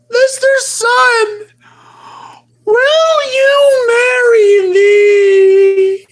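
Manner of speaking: over-the-top marriage proposal; dramatic proposal. Pretend. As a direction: drag out the big question. Proposing to the sun.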